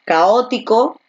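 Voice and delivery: caótico stressed on its first O. Shown as a demonstration. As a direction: lean on the O after CA in caótico. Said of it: "la fuerza de voz está aquí en la O".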